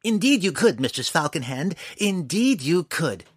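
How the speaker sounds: dwarf thrilled to help, gleeful. A narrator's reading. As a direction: bounce with glee on each word. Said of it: "Fret verily bounced with glee".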